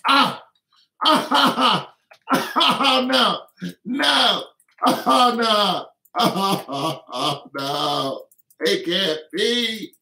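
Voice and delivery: high, loud, hammed-up wailing that sinks down to a whimper; mock sobbing fan. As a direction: play a heartbroken fan, overacting the sobs. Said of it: "How many people went".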